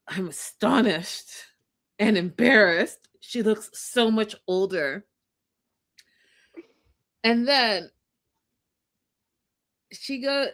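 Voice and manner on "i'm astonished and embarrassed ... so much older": aghast man to camera. Acted. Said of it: "To camera, he's like".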